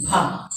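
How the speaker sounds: "bha" with a little air flowing out; aspirated bha. Shown as a demonstration. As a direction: lips together, then an airy release on "bha". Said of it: "This way we want to pronounce".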